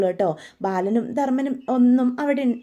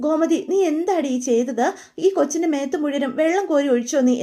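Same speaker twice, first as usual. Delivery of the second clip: sharp, higher scolding grandmother; 4 semitones higher than usual. Retold or imitated. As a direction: scold her for throwing the water. Grandmother scolds Gomathi for splashing.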